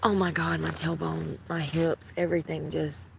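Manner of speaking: straining to stand up in pain; pained effort of getting up. Real, not acted. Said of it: "Hold on, I gotta get up".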